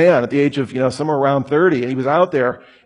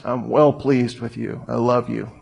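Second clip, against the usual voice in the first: tender father; 3 semitones lower than usual. Acted. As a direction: murmur it like a loving father. God's thought about you.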